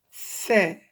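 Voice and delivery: "Fait" as Arabic tha, tongue tip out; tongue-tip sound. Shown as a demonstration. Teacher shows where the tongue goes, tongue-tip demo. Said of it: "on sort le bout de la langue".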